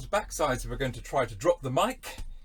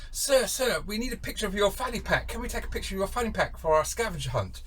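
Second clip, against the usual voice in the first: higher-pitched imitation of eager girls; raised, girlish mock request; excited American girls; 7 semitones higher than usual. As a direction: mimic girls pleading for a favour. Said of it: "these girls come up and said".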